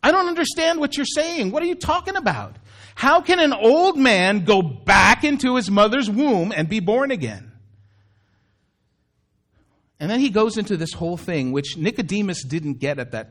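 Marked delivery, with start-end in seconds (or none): 0.0-7.5 high, incredulous questions that drop at the end; puzzled outcry from an old man; exclaiming. Retold or imitated. Nicodemus protesting to Jesus, high and incredulous. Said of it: "exclaimed Nicodemus".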